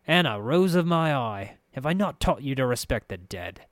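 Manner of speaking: lightly voiced, silky reproach; chiding master. Farid to his underling Anna, chiding. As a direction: scold her with mock endearment.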